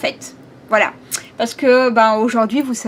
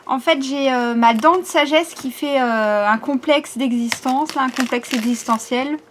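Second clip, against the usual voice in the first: lisping from a sore wisdom tooth; slight lisp on the s sounds. Real, not acted. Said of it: "je vais un petit peu zozoter".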